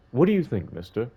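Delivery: put-on little girl. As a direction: play an eager little girl.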